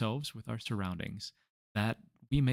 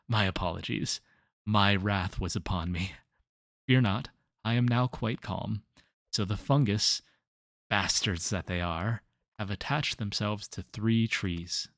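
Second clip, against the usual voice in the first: louder, barely calmed down; fussy gardener voice; 5 dB louder than usual. Acted. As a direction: hold back his temper, still loud. Irate NPC Gabino ranting.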